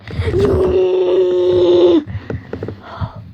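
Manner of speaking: drawn-out play-crying howl; long mock wail. Getting revenge in a pretend quarrel, mock wail. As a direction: bawl it out, hammed up.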